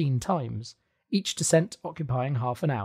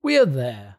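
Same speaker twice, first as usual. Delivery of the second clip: louder announcing call; cried out; 6 dB louder than usual. A narrator's reading. Hans calls up to the others, loud call. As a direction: call up that they've arrived. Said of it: "he cried".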